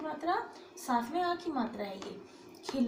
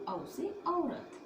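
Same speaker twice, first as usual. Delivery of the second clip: slow, higher, stretched demo of औ से औरत; slow model pronunciation; 5 semitones higher, 4 dB quieter, much slower than usual. Shown as a demonstration. Teacher to students, modelling the sound slowly. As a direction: draw out औरत with a long, open औ. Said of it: "इसे कहते हैं औ".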